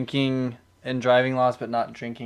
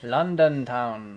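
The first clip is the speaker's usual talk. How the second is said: slow, badly faked British accent; hammed-up, unconvincing British accent; awful British accent; much slower than usual. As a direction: drag it out in a bad British accent. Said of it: "That was an awful accent".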